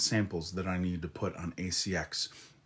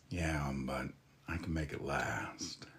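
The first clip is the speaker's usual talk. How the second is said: teasing reply; 4 semitones lower, 7 dB quieter than usual. Retold or imitated. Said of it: "To which I say".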